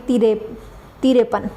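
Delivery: तिरपन said as "तिरेपन" with an extra e; local pronunciation. Retold or imitated. Teacher shows the local fifty-three. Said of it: "हम तिरपन को कभी तिरपन नहीं पढ़ते".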